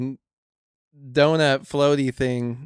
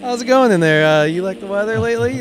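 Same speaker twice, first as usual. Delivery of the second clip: bright high reporter voice, louder; mock reporter voice; 5 semitones higher, 5 dB louder than usual. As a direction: play a cheesy field reporter. Mock interview of a fish.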